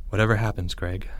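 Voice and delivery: soft, low, solemn; hushed parting words; solemn farewell. A narrator's reading. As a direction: say a grave, quiet goodbye.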